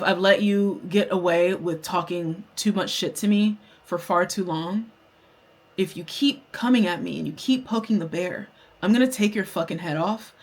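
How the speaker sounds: controlled, softened warning; retold menace, kept calm; eerily calm threat. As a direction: threaten without raising your voice. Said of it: "That's how I was talking to her".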